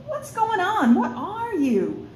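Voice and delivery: high, shocked, then slow; startled. Acted. The human girl, startled, demands what Zara is. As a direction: blurt it out in alarm.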